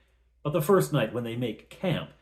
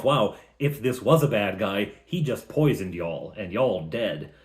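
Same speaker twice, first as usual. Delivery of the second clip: lightly Southern, a little lower; Southern accent; 3 semitones lower than usual. Acted. Narrator imagining the wizard poisoned the food, Southern accent. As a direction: slip into a mild Southern twang. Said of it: "I don't know why I became Southern there".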